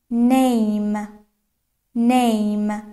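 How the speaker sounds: name with a drawn-out "ay" vowel; name said singly, long "ay" before the m; long A sound. Shown as a demonstration. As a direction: stretch the "ay" in name. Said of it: "صدای A".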